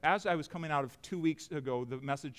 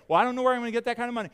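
worried giver; 8 semitones higher, 8 dB louder, much faster than usual. Retold or imitated. Pastor voices worried congregant.

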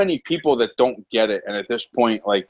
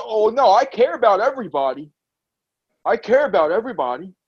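lightly mocking, higher-pitched put-on protest; mock concern; 4 semitones higher than usual. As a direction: imitate someone putting on a show of caring. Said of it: "drop the act. Drop the".

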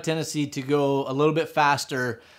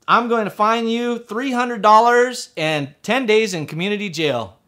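high, slow, emphatic sentencing; imitated judge pronouncing punishment; stern judge; 6 semitones higher, 4 dB louder than usual. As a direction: lay down the penalty like an irate judge. Judge hands down harsh sentence.

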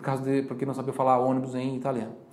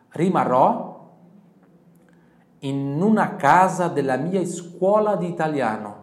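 model phrase; 3 semitones higher, 6 dB louder, slower than usual. Shown as a demonstration. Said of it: "Então você vai dizer assim".

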